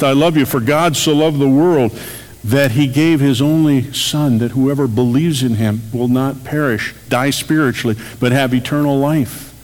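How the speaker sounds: preached shout. Acted. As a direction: proclaim it as if called out from the cross. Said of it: "It was shouted from the cross".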